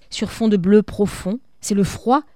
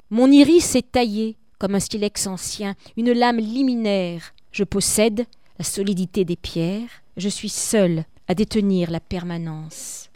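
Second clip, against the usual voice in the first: solemn reading of a poem. Acted. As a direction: read it like death itself addressing you. Teacher reads death's lines.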